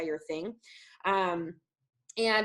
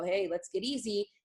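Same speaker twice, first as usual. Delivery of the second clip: calm cue. Shown as a demonstration. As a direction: settle the dog gently. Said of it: "and I go".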